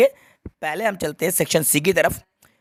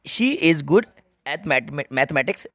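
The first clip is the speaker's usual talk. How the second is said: slow reading; much slower than usual. Shown as a demonstration. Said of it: "slow model reading".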